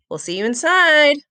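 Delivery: called out loud and high; shouting. Acted. Lucy calling to Sam as she heads inside, shouting. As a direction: call back over your shoulder. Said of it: "Lucy shouted".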